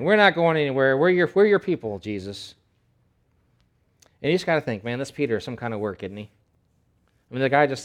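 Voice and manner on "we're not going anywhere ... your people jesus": loud, pitched-up promise; loud group vow. Acted. Disciples loudly promising Jesus they'll stay. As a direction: swear loyalty loudly. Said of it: "all the other guys said".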